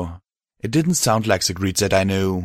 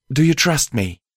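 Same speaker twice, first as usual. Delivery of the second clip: higher mare voice, insistent; insistent repeat; 7 semitones higher than usual. Acted. Mare asking the host again for trust, insistent. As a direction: repeat the question firmly in a raised pitch.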